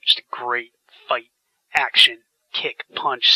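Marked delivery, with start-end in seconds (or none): none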